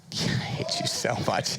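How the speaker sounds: laughing breathily through the words; cracking up while scolding. Real, not acted. Host laughing at a co-host's trolling. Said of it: "You do it every time".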